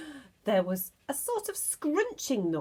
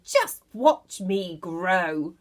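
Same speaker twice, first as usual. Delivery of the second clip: slow boast; 3 semitones lower, 5 dB louder, much slower than usual. Acted. Grandma boasting.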